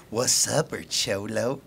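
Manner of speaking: low quiet coaching; feed her the line softly; soft prompt. Shown as a demonstration.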